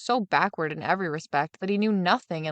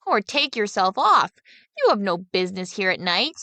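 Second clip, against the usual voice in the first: cry; 4 dB louder than usual. Acted. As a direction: call out firmly to the silent figure. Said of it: "cried the boy".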